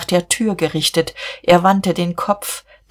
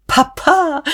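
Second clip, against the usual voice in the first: high, drawn-out call; 10 semitones higher than usual. A narrator's reading. Käthchen calls at once for her father, high-pitched. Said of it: "rief Käthchen sofort".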